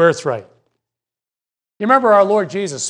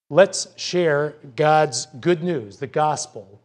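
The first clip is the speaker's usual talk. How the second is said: gentle appeal; 4 semitones lower than usual. Real, not acted.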